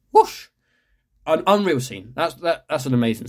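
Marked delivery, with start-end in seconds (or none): 0.1-0.5 short, loud whoosh; sudden imitated whoosh. Mimes the scene's tension.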